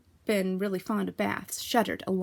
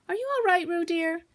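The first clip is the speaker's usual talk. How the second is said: high, sweet motherly kangaroo; Kanga's voice; 10 semitones higher than usual. A narrator's reading. Kanga checking on her baby, high and sweet. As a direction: coo it like a fussing mother.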